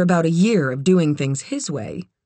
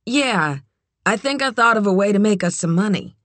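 higher, fast nervous pitch; eager young woman; 4 semitones higher than usual. Acted. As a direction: rush it out, eager to convince. Kit pitches her idea.

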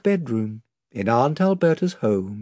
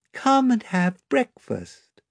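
sweet milky voice; 10 semitones higher, slower than usual. A narrator's reading. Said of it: "in its sweet milky voice".

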